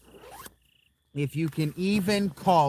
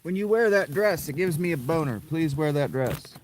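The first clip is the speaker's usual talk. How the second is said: stupid voice; 4 dB louder than usual. Pretend. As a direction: ham up a dopey pleading guy. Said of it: "I did that stupid voice".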